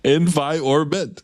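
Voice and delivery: "Environment" sounded out slowly syllable by syllable; sounding out words. Retold or imitated. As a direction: spell out "Environment" slowly, each syllable drawn out. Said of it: "He sounded it out incorrectly".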